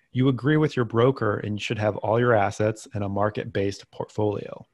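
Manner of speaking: deadpan sarcasm, played straight; sarcastic. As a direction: say it dead serious but mean the opposite. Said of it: "note of sarcasm here".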